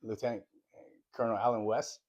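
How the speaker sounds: slight lisp around a retainer. Real, not acted. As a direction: talk through a dental retainer. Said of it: "I sound like I have a lisp".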